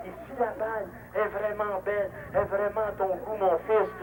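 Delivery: hammed-up churchy coaxing; mock priest. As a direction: bless the batter like a parish priest, playfully. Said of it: "ici le révérend père des Marais".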